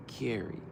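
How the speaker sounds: Carrey said as KAIR-ee; Carrey, air vowel. Shown as a demonstration. Comparing to Jim Carrey, KAIR-ee. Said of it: "we don't mess up with the singer".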